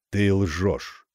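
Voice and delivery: ровно и холодно «ты лжёшь»; невозмутимо повтори; спокойно. A narrator's reading. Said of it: "спокойно повторила тень". (тень спокойно, без нажима)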